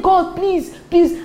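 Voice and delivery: high-pitched mock pleading; mock begging. Preacher mimicking someone waiting on God, high mock begging.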